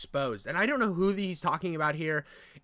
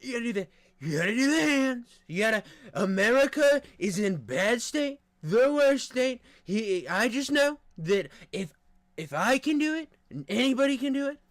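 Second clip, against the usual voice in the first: Trump impression; 5 semitones higher than usual. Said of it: "Yeah, Trump's hard".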